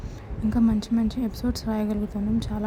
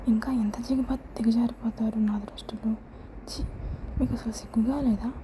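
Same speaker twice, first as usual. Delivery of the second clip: angrily; 4 dB quieter than usual. Acted. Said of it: "అని కోపంగా అంది".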